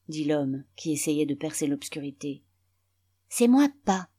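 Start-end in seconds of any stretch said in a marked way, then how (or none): 3.3-4.1 put-on higher-pitched small boy voice; little boy. A narrator's reading. Small boy answering his father in the dark, childlike high voice. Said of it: "Un petit garçon accourut".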